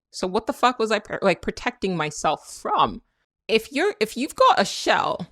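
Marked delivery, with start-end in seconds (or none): 3.5-5.3 slipped into British. Real, not acted. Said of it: "I sounded British just then".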